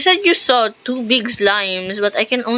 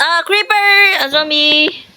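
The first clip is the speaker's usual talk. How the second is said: alarmed shout; 7 semitones higher, 3 dB louder than usual. Real, not acted. Spots a creeper while playing.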